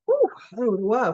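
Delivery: tired yawn breaking into the words. Real, not acted. Host tired mid-recap, yawning. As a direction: talk through a real yawn. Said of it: "I had to yawn".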